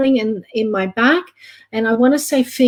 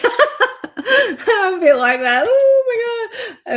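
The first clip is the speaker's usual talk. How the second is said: high, slow tearful laugh-cry; overwhelmed, half laughing, half crying; laughing through tears; 13 semitones higher, much slower than usual. Real, not acted. Psychic overcome after an emotional reading, laughing through tears. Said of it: "I still wanna cry".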